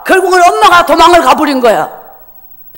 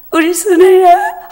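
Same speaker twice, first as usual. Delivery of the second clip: tearful call; 5 semitones higher, slower than usual. Retold or imitated. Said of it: "엄마가 막 울면서 내를 불러요".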